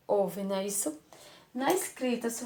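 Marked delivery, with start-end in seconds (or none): none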